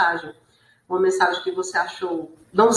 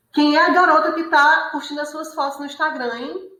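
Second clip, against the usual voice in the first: higher, half-hearted shouted accusation; mock jealous yell; 7 semitones higher than usual. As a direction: read the caps like a jealous partner raising her voice. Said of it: "é porque a gente tá gritando". (grito de ciúmes encenado, mais agudo)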